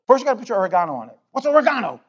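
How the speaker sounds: English-style "oregano", o-ruh-GAH-no; English accent. Retold or imitated. Pastor replaying a cooking video, touch of English accent. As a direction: put a mock English "oregano" into the line. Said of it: "he says it with an English accent".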